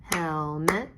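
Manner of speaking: "Helmet" in two distinct beats; clapped-out syllables. Shown as a demonstration. Teacher clapping out "Helmet" with pupils, syllable by syllable. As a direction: stretch "Helmet" into hel, met. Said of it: "let's clap it out".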